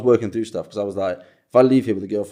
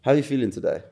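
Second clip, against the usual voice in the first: put-on Welsh accent; 4 semitones higher than usual. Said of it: "that's what I want you to sound like".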